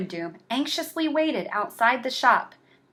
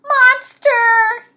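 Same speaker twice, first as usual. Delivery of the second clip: high, loud cheer; 8 dB louder than usual. Acted. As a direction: cheer it out like a happy mob. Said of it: "they all cheered".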